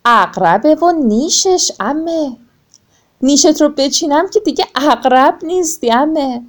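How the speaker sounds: aunt crab. Acted. Aunt crab answers the scorpion. (خالهٔ خرچنگ با صدای زیر و آرام)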